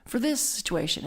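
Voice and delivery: retold panicky plea for help; scared to death. Scared new minister calling the teacher for advice, panicky. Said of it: "I was scared to death".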